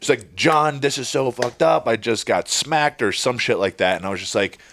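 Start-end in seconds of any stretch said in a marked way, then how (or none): 0.4-3.0 put-on drunk woman, high, slow, upset screaming. Retelling a wedding guest's wife yelling at him, imitating a woman screaming. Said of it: "She's screaming at me like".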